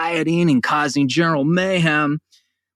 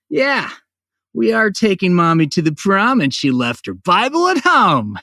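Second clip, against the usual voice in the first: creepy Lyle voice; 3 semitones higher than usual. Retold or imitated. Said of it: "Lyle the intern on Letterman".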